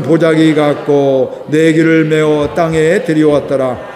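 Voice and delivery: slow, measured Bible reading; solemn recitation of scripture. Acted. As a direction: read the verse together, unhurried. Congregation reads scripture aloud.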